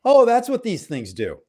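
high-pitched acted-out "aha" moment; sudden realization. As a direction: voice jumps up as it dawns on you.

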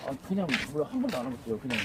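slurring like a tipsy customer; pretend drunk. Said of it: "술 취한 척하고".

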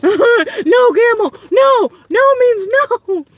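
mock scolding. Scolding the camel on screen.

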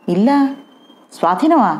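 baffled double question; confused. Acted. Pushed aside by Jayasimha, asking in confusion. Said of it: "అన్నాడు అయోమయంగా".

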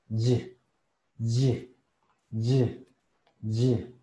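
"Y" as a buzzed "zhyeh" syllable; vibrating Z plus Y. Shown as a demonstration. Teacher joining two phonemes, "Y" as a buzzed "zhyeh". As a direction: blend a voiced buzz into "Y", short. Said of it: "Y nos da este sonido".

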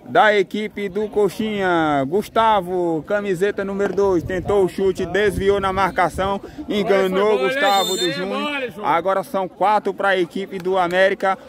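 stretched-out goal call; explosive goal commentary. Acted. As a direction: draw out the goal like a TV announcer. Goal scored in play-by-play.

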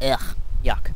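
a real grossed-out ugh on cold cocoa; disgusted. Real, not acted. Cold hot chocolate tasted.

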